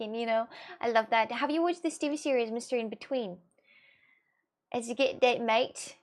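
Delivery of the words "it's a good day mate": attempted Australian "mate"; lightly put-on Australian accent. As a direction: try an Australian g'day, a little tentatively. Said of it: "I will say that the right way".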